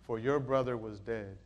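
very low, soft preacher's close; subdued, reverent scripture quote; hushed, solemn. Acted. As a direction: let each phrase settle quietly. Hushed closing quote of the father.

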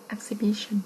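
"Exhibition" with no h, as "eksi-bition"; silent h. Shown as a demonstration. Teacher warning of a silent letter, "Exhibition" said without the h. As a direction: drop the h in "Exhibition", saying "eksi". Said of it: "các em đọc cái âm hên nó bị câm nha".

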